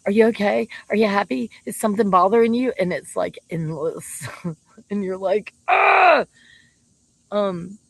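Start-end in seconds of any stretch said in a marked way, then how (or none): 0.1-2.7 anxious checking-in. Retold or imitated. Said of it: "He will follow them around and go". 5.7-6.2 sudden high frustrated yelp; exasperated cry. Retold or imitated. Fed up with endless questions.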